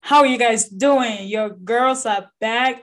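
hoarse, voice nearly gone; lost voice. Real, not acted. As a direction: speak through a voice that is gone. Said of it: "my voice is gone".

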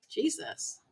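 a whispered, stunned Jesus; barely voiced, in disbelief; breathy exclamation. Imagining herself watching the awkward prank, whispering in shock.

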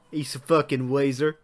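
lightly put-on southern accent. Shown as a demonstration. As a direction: say it with a southern twang. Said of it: "it just sounds racist".

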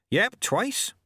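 high, bright chirpy answer; Nanny Ogg cheerfully admitting two husbands. A narrator's reading. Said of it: "said Missus Ogg cheerfully".

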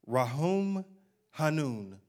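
Rahum Hanun said slowly in Hebrew; Hebrew words. Shown as a demonstration. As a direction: pronounce Rahum Hanun carefully, with a rolled h. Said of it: "Y'all wanna say that with me".

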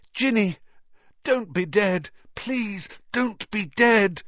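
high, loud, pleading; panicked high pleading; desperate plea. Acted. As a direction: beg her not to be dead. Harry pleading over Ginny.

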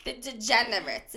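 Jersey accent on degenerates. Real, not acted. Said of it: "Jersey accent coming out".

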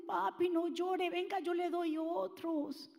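slow, soft coaxing like a parent; a light parent voice soothing a child; gently, as to a little one. Retold or imitated. Parent comforts child over candies.

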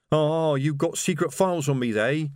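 high, eerily delighted voice; terrifying happiness. A narrator's reading. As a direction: revel in it with fanatical glee. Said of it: "with terrifying happiness".

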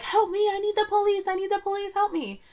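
mock yelling. Woman yelling at police to help her, frantic mock shout. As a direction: plead wildly to the police. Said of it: "starts yelling at the police and is like".

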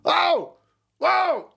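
loud high exclamation; surprised whoa. Real, not acted. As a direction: jolt back in surprise. Surprised outburst.

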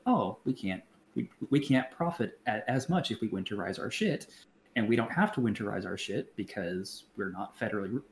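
a faint, bad Texas accent. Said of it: "Worst Texas accent ever".

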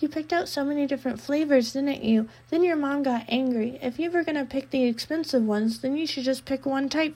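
put-on cheery girl voice hiding menace; sweet creepy girl voice. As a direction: chirp it like a friendly stalker. She said.

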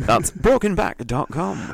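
hammed-up voiceover sign-off; mock advert. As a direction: spell out the web address like a commercial. Repeats the mock advert's web address.

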